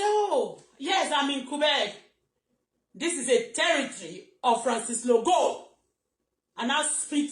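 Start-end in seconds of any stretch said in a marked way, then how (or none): 0.0-5.7 high, showy, slow; answering the nosy commenter with breezy pride; mock proud reply. To a stranger on her platform, proudly and much higher. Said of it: "And I say".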